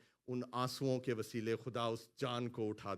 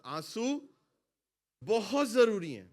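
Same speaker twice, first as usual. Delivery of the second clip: بہت punched loud and high; call-and-response line; emphatic call to repeat; 7 semitones higher, 9 dB louder than usual. Shown as a demonstration. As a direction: hit بہت hard for the church to echo. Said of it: "بولے میرے ساتھ".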